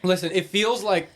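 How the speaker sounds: pained, tongue on fire; mouth burning from spicy food. Real, not acted. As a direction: speak past a burning tongue. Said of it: "fiberglass stuck to my tongue".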